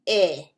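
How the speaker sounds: "eh" kort en open, als in "bed"; short E. Shown as a demonstration. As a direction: zeg een korte, open "eh". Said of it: "It sounds like".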